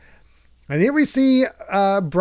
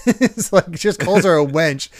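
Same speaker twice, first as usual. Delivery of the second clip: normal talking voice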